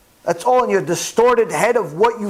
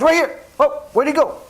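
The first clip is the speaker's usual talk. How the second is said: higher, puzzled looking around; surprised; 6 semitones higher than usual. Retold or imitated. Vegetable man turns and finds the husband gone, surprised. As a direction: notice he's suddenly gone.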